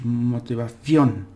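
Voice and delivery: Motivación slow with the ción punched out; punched final stress. Shown as a demonstration. Teacher demonstrating the stressed ending to students. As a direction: hit the end of Motivación hard. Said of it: "You gotta punch it out".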